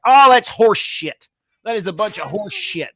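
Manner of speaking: hammed-up high-pitched country accent. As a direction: exclaim it in an exaggerated country twang. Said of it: "put on your country accent".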